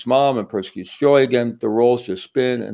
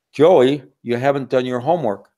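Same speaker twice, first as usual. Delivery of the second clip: scolding dad; 3 semitones higher than usual. Acted. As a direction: scold the son about homework. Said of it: "Hi, Dad".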